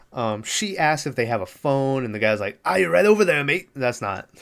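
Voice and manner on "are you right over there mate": a lightly put-on fake Irish accent, a bit higher; mock an Irish villager's accent, badly. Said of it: "that's not Irish".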